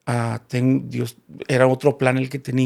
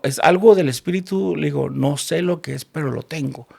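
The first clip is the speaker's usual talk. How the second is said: with authority and anointing; 3 semitones higher than usual. Retold or imitated. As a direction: declare it like an anointed preacher. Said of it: "como con mucha autoridad y unción". (con mucha autoridad y unción, medio en broma)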